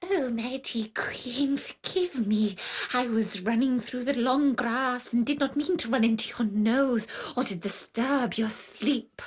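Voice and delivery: hushed, hurried pleading; begging mouse. Acted. The mouse begs the lioness to spare it, timid and hushed. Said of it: "when the mouse begged".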